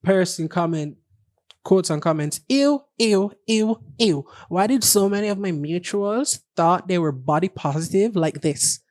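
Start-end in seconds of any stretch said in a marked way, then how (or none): 2.5-8.8 put-on Valley Girl voice. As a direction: mimic a California valley girl sneering. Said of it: "Why you have to say it in the Valley Girl voice?".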